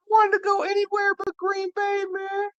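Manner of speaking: very high whimpering mock sob voice; hammed-up tearful rookie, squeaky high; mock crying. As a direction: whine it way up high like a kid about to cry. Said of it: "He's like".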